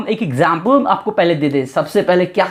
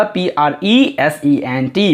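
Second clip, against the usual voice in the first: slow spelling out; 4 semitones lower, slower than usual. Shown as a demonstration. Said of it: "प्रेजेंट का spelling सुन लीजिएगा".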